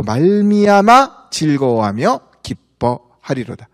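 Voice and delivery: declaimed Bible verse, slowing toward the close; measured pulpit recitation; scripture reading. Acted. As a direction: read the verse out to a congregation, drawing out the last phrases. Reads the Bible verse aloud.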